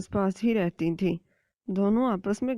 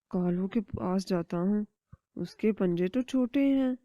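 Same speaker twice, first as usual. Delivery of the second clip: plan to eat the chicks; scheming eagle. Acted. (چیل کی دھیمی سازشی آواز)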